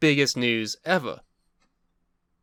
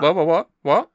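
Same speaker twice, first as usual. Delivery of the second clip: stunned disbelief; 3 semitones higher, 5 dB louder than usual. Real, not acted. Stunned by the Money in the Bank news.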